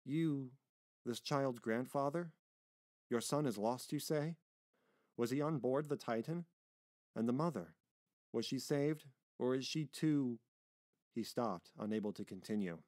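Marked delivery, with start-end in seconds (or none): 0.0-10.4 higher, pressing questions; eager. Acted. Sailor questioning the child's grandfather about the mother, eager. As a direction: ask with mounting eagerness. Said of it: "asked Roland eagerly".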